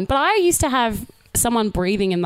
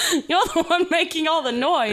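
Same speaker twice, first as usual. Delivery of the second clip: higher, laughing through the line; laughing mock retort; 8 semitones higher than usual. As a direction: repeat it while cracking up. Repeating friend's retort, laughing.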